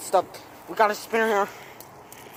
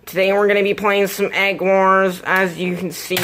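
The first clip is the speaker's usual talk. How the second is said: put-on kid gamer intro; 6 dB louder than usual. Kid gamer intro over music.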